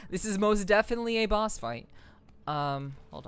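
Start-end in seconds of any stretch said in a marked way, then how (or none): 0.0-1.9 laughing through the words. Real, not acted. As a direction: chuckle while saying it. Laughs at the boss fight.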